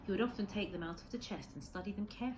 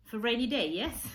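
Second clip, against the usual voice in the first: a light hint of an old Japanese man's broken English, higher and louder; cheerful old man trying out a new phrase; Kensuke, lightly voiced; 7 semitones higher, 10 dB louder than usual. A narrator's reading. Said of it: "He laughed".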